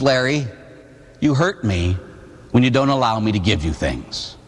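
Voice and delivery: hurt, low and halting; mock-tearful grandmother. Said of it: "my grandmother started to cry".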